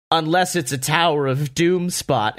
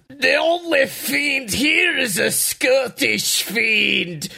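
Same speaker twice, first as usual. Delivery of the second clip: high, slow shouted entrance line; booming entrance shout; 8 semitones higher, slower than usual. Retold or imitated. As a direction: boom it like a hero arriving. Announcing McIntyre's entrance.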